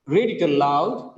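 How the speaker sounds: "aloud" stressed on its second syllable; teacher modelling "aloud" with a strong second syllable. Shown as a demonstration. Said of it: "the second syllable is stressed".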